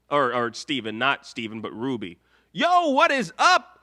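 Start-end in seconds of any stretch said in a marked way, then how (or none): 2.5-3.7 higher, louder, pumped-up shout; hype excitement. Real, not acted. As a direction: celebrate the cash like a streamer. Donation alert excitement.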